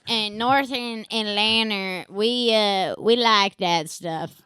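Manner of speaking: a light put-on Southern accent, as if from North Atlanta. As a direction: lightly play the Southern local. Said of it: "that's a partly stroke accent".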